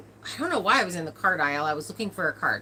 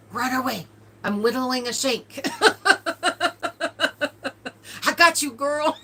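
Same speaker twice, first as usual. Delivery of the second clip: laughing imitation; 7 semitones higher, 3 dB louder than usual. Retelling cousin's funny lines.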